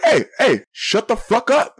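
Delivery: high, drawn-out mock holler from a window; retold yell. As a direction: imitate yelling down at a noisy stranger. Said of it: "I can yell at you".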